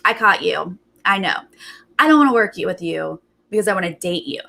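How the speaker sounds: mildly mimicked knowing accusation; "I caught you" attitude. Recapper imitating a housemate who thinks he caught her, mildly accusatory. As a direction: imitate someone sure they've caught you out. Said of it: "He's got that attitude of, like".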